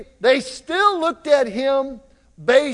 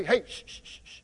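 soft, low scolding with repeated shushes; hushed shushing; 3 semitones lower, 10 dB quieter than usual. Acted. Church folk to someone who shouted out, hushed reproof. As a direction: shush someone in church, keeping your own voice down. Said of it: "some folk in church, if someone shouted out".

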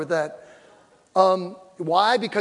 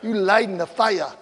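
mock seductive line; 3 semitones lower, 6 dB quieter than usual. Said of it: "you don't say".

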